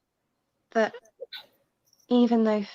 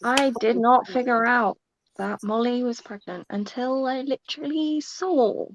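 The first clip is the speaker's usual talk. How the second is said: voicing Fitz; 3 semitones higher than usual.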